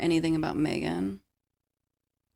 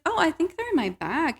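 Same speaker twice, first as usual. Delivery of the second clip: lightly voiced Rose; 10 semitones higher than usual.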